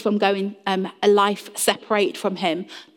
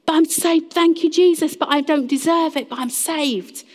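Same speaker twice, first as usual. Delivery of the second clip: higher-pitched, acted humble awe; humble gratitude; 4 semitones higher than usual. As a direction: play a humbled believer marvelling with thanks. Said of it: "You are humble. You're like".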